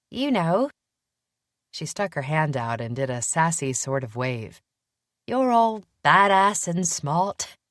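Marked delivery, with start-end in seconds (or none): 0.1-0.7 put-on young woman voice. A narrator's reading. Willa speaking. 5.3-7.6 put-on admiring young woman. A narrator's reading. Willa admiring.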